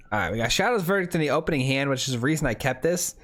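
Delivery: slurred from a numb mouth; numb-mouthed, slushy esses. Real, not acted. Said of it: "I'm slurring a little bit right now".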